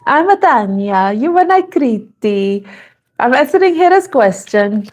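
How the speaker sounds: playful mock-Italian lilt; hammed-up Italian rhythm; Italian accent. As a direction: bounce each phrase like a cartoon Italian. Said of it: "I'm doing the Italian accent".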